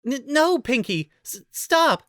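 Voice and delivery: high giggly squeal; squealing with laughter. A narrator's reading. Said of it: "Fluttershy squealed in between bouts of laughter".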